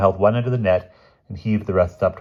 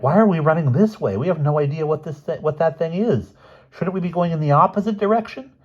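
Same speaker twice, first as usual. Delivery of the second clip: high, loud panicky pleading; alarmed cry; 10 semitones higher, 4 dB louder than usual. A narrator's reading. Boots stopping his friend in sudden alarm, high and loud. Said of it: "he cried".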